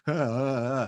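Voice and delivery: imitated lovestruck swoon noises; little put-on swoons, wordless; mock swooning sighs. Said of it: "has a swooning effect on everyone".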